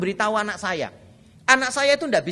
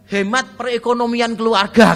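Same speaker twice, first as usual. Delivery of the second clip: menirukan anak berargumen; 6 dB louder than usual. Retold or imitated. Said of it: "katanya dia gitu".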